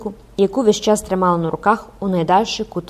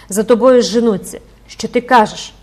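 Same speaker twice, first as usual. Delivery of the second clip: alarmed; 3 semitones higher, 8 dB louder than usual. Acted. Mother realises daughter is hunted.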